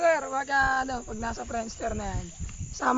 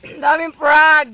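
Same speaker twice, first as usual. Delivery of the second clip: excited exclaim; 10 dB louder, slower than usual. Real, not acted. Exclaiming loudly, slowly.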